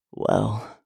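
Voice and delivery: low, isolated word. A narrator's reading. Man answers his lover's plea, word by word. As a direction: set the word apart, low. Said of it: "a word for each stroke".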